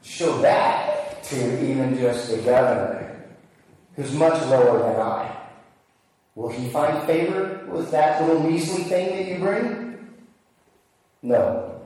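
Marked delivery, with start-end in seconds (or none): 0.0-10.1 sarcastic. Acted. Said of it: "It's almost sarcastic".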